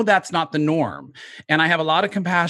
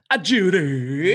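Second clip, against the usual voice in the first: from another room; slower than usual. Retold or imitated. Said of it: "'cause I used to say".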